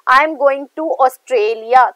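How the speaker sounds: slow example sentence, weight on "Australia"; stress on Australia. Shown as a demonstration. Teacher repeating her example of lexical stress, stressing "Australia". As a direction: give "Australia" the main stress. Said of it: "ऑस्ट्रेलिया पे ज्यादा lexical word पे".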